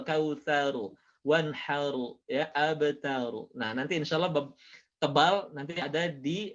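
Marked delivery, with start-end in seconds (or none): 0.0-3.5 "kausaru, wanharu, abtaru" with open A before a thick R; "wanharu" with clear ha joined to thick R; pure A, heavy ro. Shown as a demonstration. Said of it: "gabung dengan ro tebal".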